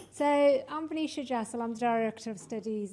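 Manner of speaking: loud opening to a room; in front of an audience. Real, not acted. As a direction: project to the back row. Speaker opens her talk.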